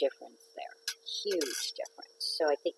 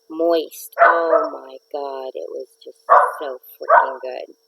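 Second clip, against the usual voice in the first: excited; 9 dB louder, slower than usual. Real, not acted. Raving about the dessert.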